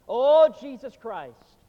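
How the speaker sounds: slow, loud, drawn-out anguished cry; desperate outcry. Retold or imitated. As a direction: cry out to Christ in slow despair as a dying man. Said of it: "he cried out more desperately".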